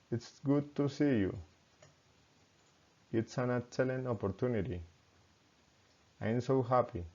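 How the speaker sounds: exclamations sinking in pitch at the end; falling intonation. Shown as a demonstration. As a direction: let "you", "opportunity", "happy" fall. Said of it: "falling intonation".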